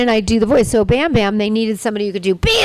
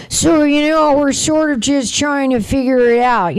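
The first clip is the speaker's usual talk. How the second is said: Jake's voice; 4 semitones higher than usual. Retold or imitated. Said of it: "Jake sounds like this".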